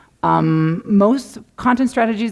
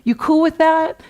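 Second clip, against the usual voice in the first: breezy pitch to client; 4 semitones higher than usual. Retold or imitated. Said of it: "It's so wonderful to say".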